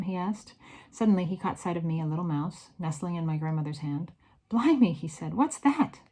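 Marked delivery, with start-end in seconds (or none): 4.5-4.9 higher, louder burst of surprise; startled exclamation. A narrator's reading. Driver startled by a mouse. 5.3-6.0 raised pitch in surprise; startled question. A narrator's reading. Driver startled by a mouse.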